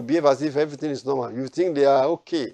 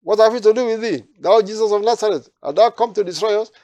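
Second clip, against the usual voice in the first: much higher and louder shrieking demon; demon crying out; 8 semitones higher, 7 dB louder than usual. Acted. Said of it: "that demon just manifests and says".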